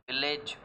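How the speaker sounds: विलेज with an "ay" in the ending; विलेज, full e vowel in "lej"; wrong pronunciation demo. Shown as a demonstration. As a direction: say विलेज as VIL-layj. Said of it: "this word is not village".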